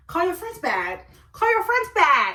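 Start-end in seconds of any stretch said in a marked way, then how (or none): 1.3-2.3 loud, high, insistent command; acting out a raised-voice demand; insistent order. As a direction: order him sharply, pitch jumping up. Acted order, repeated more forcefully.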